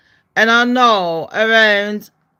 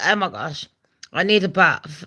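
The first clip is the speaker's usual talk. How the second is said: lightly put-on London accent, lower; 4 semitones lower, 4 dB quieter than usual. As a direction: slip into a lower-pitched London voice. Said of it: "I go to London, I'll be like".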